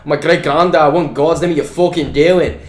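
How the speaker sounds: imitating a Scottish recruiter's accent, half-hearted; mock Scottish accent. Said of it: "and in a Scottish accent".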